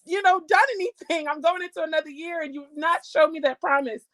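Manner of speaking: a hint of indignant prayer; challenging God. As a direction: demand an answer from God. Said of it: "I challenged God and said".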